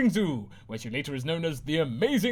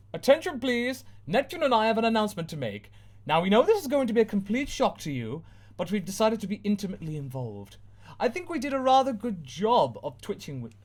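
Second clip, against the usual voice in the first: high, proper announcer tone; formal announcement; 8 semitones higher than usual. Acted. Uranus telling everyone their news, formal. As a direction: announce it grandly.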